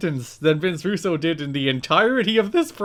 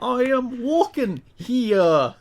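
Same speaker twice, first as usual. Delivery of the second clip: high, slow, grand fantasy voice; mystical D&D character; 9 semitones higher, 3 dB louder, much slower than usual. Acted. Host plays the wrestler as a D&D mystic, high grand mock voice. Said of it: "the voice he gave whatever mystical character".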